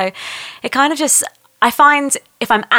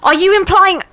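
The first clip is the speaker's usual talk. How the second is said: deadpan cop drama voices; lightly acted police procedural; detective drama read; 3 semitones higher than usual. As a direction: play the grim detective scene straight. Performed detective sketch read.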